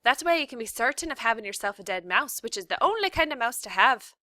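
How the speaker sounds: loud, high ranting philosophy; shouted. A narrator's reading. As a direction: bark out the rule with relish. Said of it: "shouted Cook".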